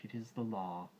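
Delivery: Kaa's voice set apart from Baloo's; python Kaa. A narrator's reading. Kaa ends.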